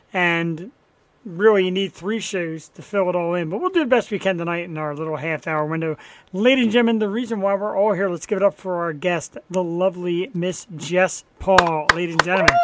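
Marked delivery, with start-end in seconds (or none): 6.3-12.5 announcer intro. Acted. Host introduces guest.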